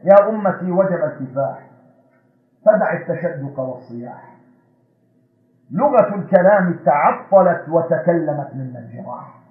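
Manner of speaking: slow, measured recital of the verse; poem recitation. Acted. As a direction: declaim the poem to the congregation. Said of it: "التي صاغها الشاعر بقوله".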